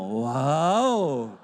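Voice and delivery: long, drawn-out wow; amazed wow. Acted. Father marvelling at his young son's answer, amazed. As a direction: let the admiration swell and sink slowly.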